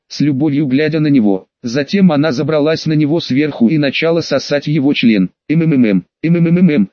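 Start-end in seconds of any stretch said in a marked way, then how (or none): 5.5-6.9 understated read-aloud mm-mm of pleasure; moan. A narrator's reading. Peter moans with eyes closed, mild hummed moan. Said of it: "застонал Питер".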